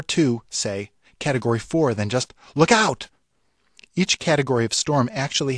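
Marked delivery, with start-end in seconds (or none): 2.5-3.1 higher, louder cry of alarm; mock warning shout. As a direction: call out a warning. Quoting a storm warning.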